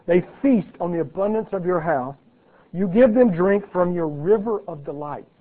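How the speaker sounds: measured, ringing Bible reading; scripture reading. Acted. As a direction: read the psalm out to the congregation. Reads psalm aloud.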